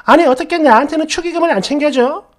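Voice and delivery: a friend angrily demands her wedding gift; angry complaint. Retold or imitated. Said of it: "이러면서 막 화를 내는 거예요".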